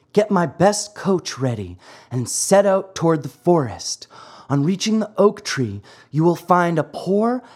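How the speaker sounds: high, gentle fairy orders; tiny tinkling fairy voice. Acted. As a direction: ask tenderly in a high voice. Fairy instructs the poodle.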